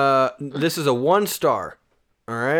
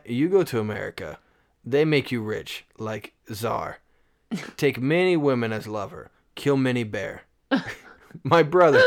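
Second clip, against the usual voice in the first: put-on Russian accent. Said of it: "like a Russian?".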